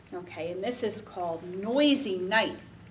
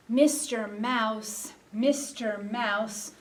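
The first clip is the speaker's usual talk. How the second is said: sing-song call; slower than usual. Pretend. Chanted call to hidden mouse.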